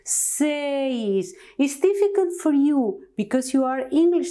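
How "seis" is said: seis with the e and i as separate sounds; seis, slow and deliberate; careful seis. Shown as a demonstration. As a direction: split the vowels in seis. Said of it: "You have two sounds here".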